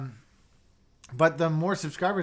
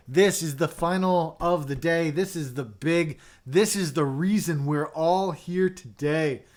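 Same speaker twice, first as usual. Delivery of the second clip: dramatic build-up; 5 dB louder, slower than usual. Acted. Hyping the big reveal.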